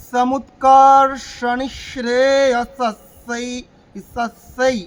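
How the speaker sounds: chanted, with সস্যৈ given two distinct স sounds; double স. Shown as a demonstration. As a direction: sound both স clearly in সস্যৈ. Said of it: "দুটো স।". (সস্যৈ-তে দুটো স স্পষ্ট করে সুরে)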